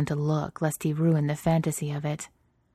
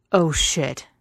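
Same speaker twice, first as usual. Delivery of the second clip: louder startled exclamation; loud outburst; 5 dB louder than usual. Acted. Lover startled in the dark house, loud outburst. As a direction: blurt it out loud, caught off guard. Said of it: "really loud".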